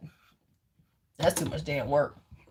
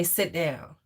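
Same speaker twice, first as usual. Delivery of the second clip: firm command; 3 semitones lower, 4 dB quieter than usual. Shown as a demonstration. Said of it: "You would say".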